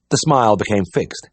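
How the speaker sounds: ordinary delivery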